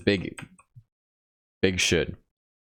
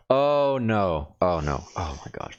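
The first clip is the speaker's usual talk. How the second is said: alarmed oh no; 2 semitones higher, slower than usual. Real, not acted. Code breaks unexpectedly.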